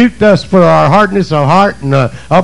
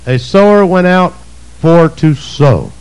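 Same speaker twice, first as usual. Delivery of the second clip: slow emphatic reading. Shown as a demonstration. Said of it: "Is that what it says?".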